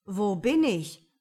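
slow, loud drowsy fool; lazy fool voice. A narrator's reading. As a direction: wake up puzzled in the dark. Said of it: "fragte er bei sich".

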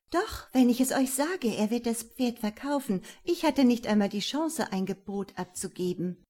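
called out loud. Acted. Anna covering up for the listening guests, loud. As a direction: raise your voice so the guests hear. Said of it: "rief sie laut".

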